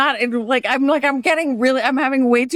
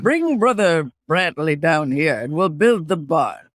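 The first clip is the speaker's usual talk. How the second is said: put-on Pennsylvania Dutch accent; 3 semitones lower than usual. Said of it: "do a Pennsylvania Dutch accent".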